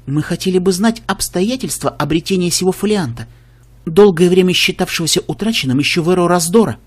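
lightly voiced royal princess; cartoon princess. Princess speaks regally.

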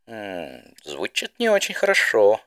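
slow, thoughtful, drawn out; thoughtful drawl. Acted. Spitfire musing over the warning, slow and thoughtful. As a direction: muse it slowly. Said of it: "задумчиво протянула Спитфайр".

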